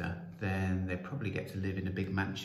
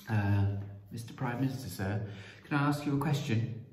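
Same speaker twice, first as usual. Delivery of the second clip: put-on hesitant, higher-pitched boy's request; timid; 3 semitones higher than usual. Joe approaching the Prime Minister with a question, timidly. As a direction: ask nervously, starting with a hesitant uh. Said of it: "Joe said timidly".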